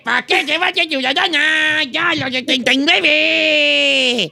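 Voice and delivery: put-on slurred slow drunk man. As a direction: play a tipsy old drunk. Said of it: "Estoy imitando a un borrachito".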